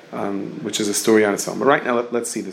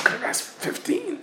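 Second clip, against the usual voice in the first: a much higher, sudden "oh!" of mock realization; 4 dB quieter than usual. The poor man realizes he could have asked the Rebbe for more, in a much higher mock realization. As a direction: pop up in pitch as the idea dawns on him.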